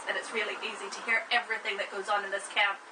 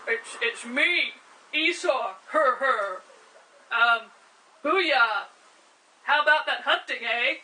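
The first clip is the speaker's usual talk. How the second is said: louder, gruff put-on voice, poorly done; bad fake Esau; 5 dB louder than usual. Jacob pretends to be Esau for his father, badly faked gruff voice. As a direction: puff up and fake a tough brother, badly. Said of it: "He's not very good at this".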